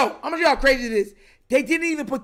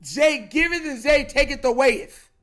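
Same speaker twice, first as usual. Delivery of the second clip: mock biblical line; 2 semitones higher, slower than usual. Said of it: "I'm like".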